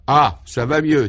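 slow, loud relieved exhale; breathless relief; relieved sigh. Acted. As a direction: let the relief out after exertion. Character relieved after exercise.

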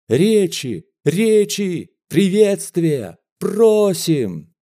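excited crowd demanding speeches; crowd calling out. A narrator's reading. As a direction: call out like an eager crowd.

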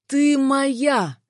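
possessive roar. A narrator's reading. Jealous man claims the woman, roaring. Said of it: "взревел он".

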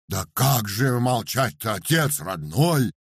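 loud slow plea; outcry. Acted. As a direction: cry out to the master. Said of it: "выкрикнул Парамон".

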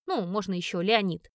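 bass voice. Pretend. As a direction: play the tough guy in a put-on bass. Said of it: "говорю басом". (басом)

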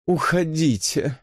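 slow, languid «Уходите»; languid plea. A narrator's reading. Elisa begs Susan to leave, languid. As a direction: plead «Уходите» lazily, drawn out. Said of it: "томно взмолилась Элиса".

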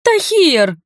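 a high, loud furious yell of the name; roaring. A narrator's reading. Nerina yelling at her brother from the bathroom, loud high roar. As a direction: bellow his name from the next room. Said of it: "взревела она из купальни".

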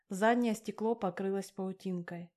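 ordinary delivery, nothing marked

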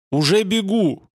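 high shout moving away; fading shout. A narrator's reading. Guard shouts, high and loud, as he runs off. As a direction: call it out while running off. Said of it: "донёсся удаляющийся крик".

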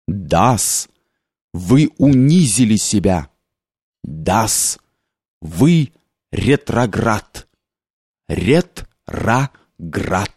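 low, slow booming accusation; drunk clerk shouting. A narrator's reading. Drunk clerk accuses the general, slow low thunder. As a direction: hurl the words down slow and heavy. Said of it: "закричал он громовым голосом".

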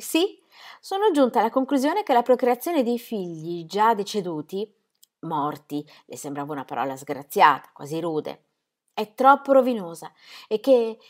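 voce femminile più acuta e agitata; Ingeborg implorante. Acted. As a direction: moglie che supplica con ansia. Ingeborg recites her speech. (voce alta e implorante di Ingeborg)

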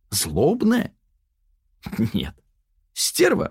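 lifted pitch, smug inner double; Yana's mocking alter-ego voice. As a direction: sneer at Sonya from inside her head.

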